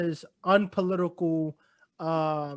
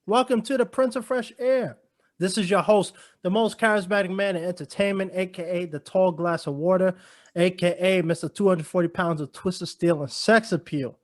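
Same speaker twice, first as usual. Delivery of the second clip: showy host announcing the show; podcast intro. Acted. Host welcomes listeners to his podcast, showy announcer style. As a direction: roll out grandiose self-introductions like an emcee.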